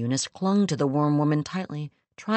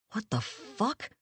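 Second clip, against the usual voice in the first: shocked; 5 semitones higher, 8 dB quieter, slower than usual. Acted. Horror at the creature.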